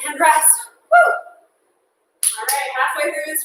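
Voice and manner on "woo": short high whoop; quick exerted "woo". Real, not acted. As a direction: let out a woo as the set ends. Exhales in relief as set ends.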